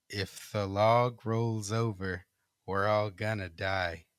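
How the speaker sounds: slow, low eerie chant. Acted. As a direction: drone it out slowly like a ghost. Ghostly voice in story.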